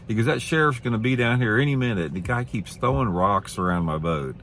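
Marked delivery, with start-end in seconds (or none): 0.3-2.1 high, smug mock threat; threatening loudmouth. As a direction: pitch it up like a gloating bully. Aggressive dock owner threatening.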